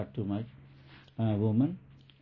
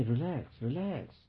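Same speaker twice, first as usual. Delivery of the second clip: soothing relax; 2 semitones higher, 4 dB quieter, slower than usual. Shown as a demonstration. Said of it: "If we just say".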